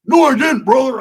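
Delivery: high loud denial; Roach shouting back. Retold or imitated. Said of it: "I said".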